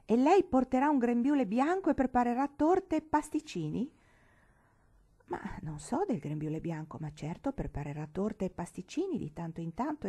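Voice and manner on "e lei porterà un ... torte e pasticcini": incredula. Acted. Sorella incredula sulla vita della sposa.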